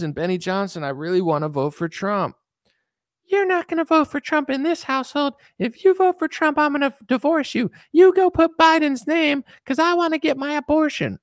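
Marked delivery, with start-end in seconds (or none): 3.2-11.2 bossy wife. Acted. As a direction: boss him around like a demanding wife. Wife threatening husband in sketch.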